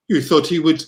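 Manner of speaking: light mock French accent. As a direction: toss off the question in a French accent. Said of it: "Sorry, I don't know why I'm doing a French accent".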